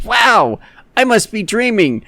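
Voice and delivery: high-pitched cartoon wonder; mock amazement, pitched high; amazed spider. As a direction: swoop up high as a starstruck little spider. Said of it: "And then the spider goes".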